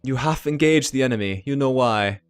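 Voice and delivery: put-on German-accented envoy. Dragon's envoy answers Punty's challenge, German accent. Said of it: "deep, melodious German accent".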